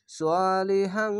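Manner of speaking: সোয়ালিহাং drawn out slowly into a long ng hum; ikhfa ghunnah. Shown as a demonstration. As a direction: stretch the vowels and sustain the nasal ending of সোয়ালিহাং. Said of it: "গুন্নাটি হবে অনেস্কারের মতো".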